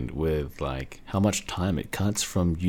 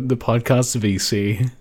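trying not to laugh; 3 semitones higher, 4 dB louder than usual. Real, not acted. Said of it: "I'm trying not to laugh".

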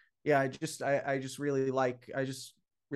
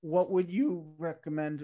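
voice cracking. Real, not acted. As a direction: voice cracks mid-question. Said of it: "my voice just cracked".

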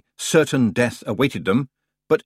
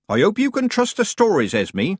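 put-on worried old witch; 11 semitones higher, 4 dB louder than usual. Nanny Ogg to Granny.

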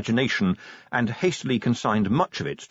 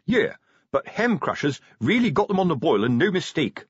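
raised-pitch sergeant's character voice; grumbling sergeant; 8 semitones higher than usual. Acted. Sergeant grumbling to his corporal, raised voice. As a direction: grumble like an old-hand watchman. Figure of Colon speaks.

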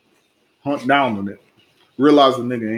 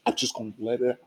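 put-on whiny child voice; 5 semitones higher, faster than usual. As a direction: wail it like a big baby. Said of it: "Because this nigga".

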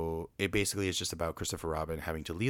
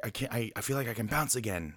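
higher, mildly excited imitation; excited retelling; 4 semitones higher than usual. Tigger safe on the snow after his fall, mildly excited. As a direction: lightly act out stammering excitement. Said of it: "he's so excited".

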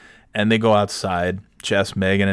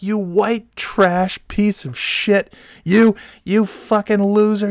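high, drawn-out mock scream; retold screaming tirade; 11 semitones higher, slower than usual. Customer who lost it at everybody in the bar, screaming. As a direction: re-enact screamed insults, each one stretched out high. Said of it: "I screamed at her, I screamed at everybody at the bar".

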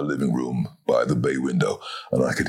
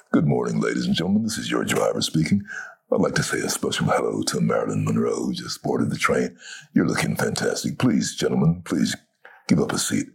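announcer voice; 3 semitones lower than usual. Retold or imitated. Driver on the PA system.

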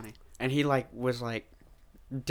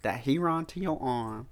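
imitating TV psychic; 5 dB louder than usual. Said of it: "He goes".

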